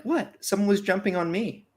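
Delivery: high, startled protest; mock indignant surprise. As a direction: squeal it in disbelief. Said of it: "I'm like".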